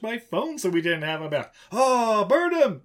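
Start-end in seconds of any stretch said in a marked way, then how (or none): 1.7-2.8 high, loud mob-style shout; mock angry cry. Host condemning the man who sabotaged the phone, mock outraged cry. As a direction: call for punishment in mock outrage.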